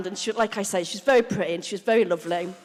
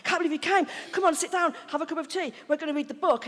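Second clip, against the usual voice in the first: high, hushed gushing; imitating excitement; 5 semitones higher, 4 dB quieter, faster than usual. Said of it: "she was so excited to see me".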